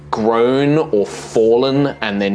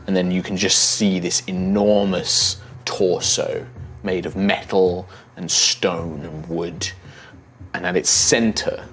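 story narration; 4 dB quieter than usual. A narrator's reading. GM scene setting.

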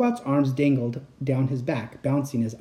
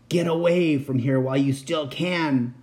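hoarse whisper. Acted. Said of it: "he cried in a hoarse whisper".

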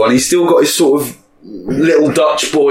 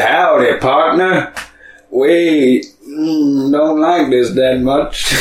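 put-on American accent; much slower than usual. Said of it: "in America they said".

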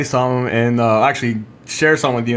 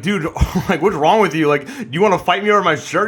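laughing retort; 4 semitones higher than usual. Retold or imitated. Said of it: "I was like".

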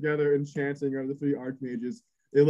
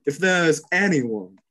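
menacing bride; 4 semitones lower than usual. Acted. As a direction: purr the threat like a sweet-faced killer. GM voices bride threatening objectors.

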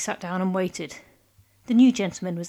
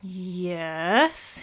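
careful hesitant yes; cautious; 2 semitones lower than usual. Acted. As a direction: answer warily, unsure of him. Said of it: "he said cautiously".

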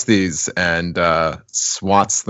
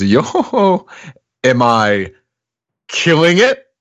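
much higher, louder youthful voice; hip kid slang; 8 semitones higher, 4 dB louder, slower than usual. Acted. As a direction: sound like a trendy kid. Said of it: "As the kids say".

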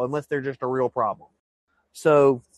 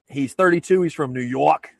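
a mock New York accent, half-hearted; bad New York accent. Host jokingly imitates a New York firefighter in a mock New York accent. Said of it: "That's a terrible New York accent".

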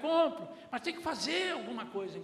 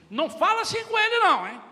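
much louder, much higher scolding shout; father shouting at the mother in front of the son; angry rebuke; 11 semitones higher, 12 dB louder than usual. Retold or imitated. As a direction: yell at the mother to defend the child. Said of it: "o pai na frente da mãe disse assim".

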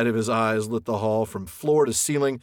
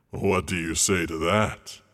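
boasting dragon; 3 semitones lower, slower than usual. A narrator's reading. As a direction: roll out each boast, ending in a hush. Dragon shows belly.

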